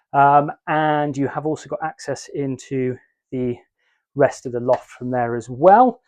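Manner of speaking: puffing between the words; talking while short of breath after a climb. Real, not acted. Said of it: "the reason I'm huffing and puffing".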